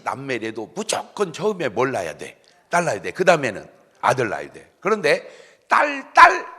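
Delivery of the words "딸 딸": 높고 크게 두 번 외치기; 단어마다 힘주어 높이 내지르기. Shown as a demonstration. 딸 딸과 아들 아들을 대조해 외침. (높고 우렁차게 외치듯)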